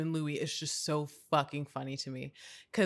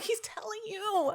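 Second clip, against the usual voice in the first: laughing plea; 6 dB quieter, slower than usual. Retold or imitated. Retold yelling at the screen.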